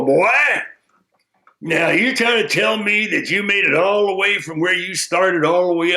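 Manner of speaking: lightly voiced sage calling him back; a stern old sage halting the boy; wise man. Wise man stopping the boy, mildly stern.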